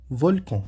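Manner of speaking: "Volcan" with final N as nasal "on"; French nasal pronunciation. Shown as a demonstration. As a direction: say "Volcan" ending in a French nasal vowel, no hard N. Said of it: "nós vamos pronunciar".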